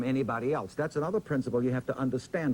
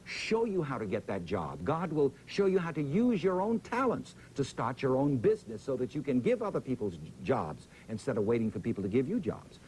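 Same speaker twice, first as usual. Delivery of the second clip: preaching. Retold or imitated. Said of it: "I began to preach to people".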